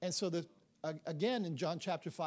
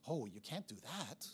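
laughing protest; 4 semitones lower, 6 dB quieter than usual. Retold or imitated. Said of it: "sister-in-law Terry replies".

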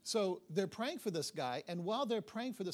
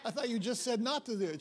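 exasperated disbelief; 6 semitones higher, 5 dB louder than usual. Retold or imitated. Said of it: "It's like".

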